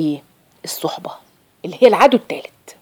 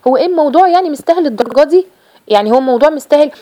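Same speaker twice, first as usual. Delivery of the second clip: incredulous question pitched higher, mimicking; astonished friend; 6 semitones higher than usual. Friend questioning a devout woman, high incredulous mimicry. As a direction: play the baffled friend who thinks it is overdone. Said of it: "تسالك باستغراب قوي".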